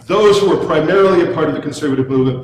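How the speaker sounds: put-on old man voice. Shown as a demonstration. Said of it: "I should do my old man voice".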